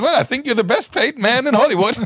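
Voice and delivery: high voice through laughter; laughing Keitel. Retold or imitated. Keitel joking about the best-paid man, high and laughing. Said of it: "Und er meinte so".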